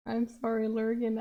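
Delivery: usual speaking voice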